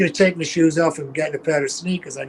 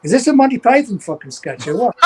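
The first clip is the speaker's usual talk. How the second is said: higher, laughing through the words; half-laughing at the absurd cops; laughing disbelief; 4 semitones higher, 3 dB louder than usual. Retold or imitated. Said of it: "I'm going".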